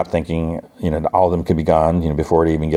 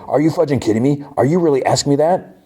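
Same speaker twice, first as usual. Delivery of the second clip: indignant retort; 9 semitones higher than usual. Retold or imitated. Knox snaps back at Paul's question about protecting him, indignant. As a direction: act out an incredulous comeback. Retold quarrel, Knox confronted by Paul.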